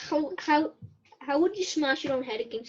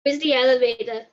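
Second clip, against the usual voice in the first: said again louder for a listener who missed it; louder repeat; 5 dB louder than usual. Real, not acted. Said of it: "What's that?".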